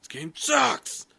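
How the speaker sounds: slow, drawn-out mock complaint; mock disgust. Friend mocks a disappointing game, slow and high. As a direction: pretend to hate the game, dragging it out.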